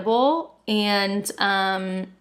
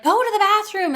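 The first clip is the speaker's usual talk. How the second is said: higher, firm mock order; a lightly voiced stern mother-in-law, higher; 11 semitones higher, 3 dB louder than usual. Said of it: "she's like".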